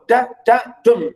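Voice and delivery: "da, da, DUM" chanted with the stress landing on dum; two light das rising into a firm DUM; stress on last syllable. Shown as a demonstration. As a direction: anapestic beat, da-da-DUM. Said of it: "You go up".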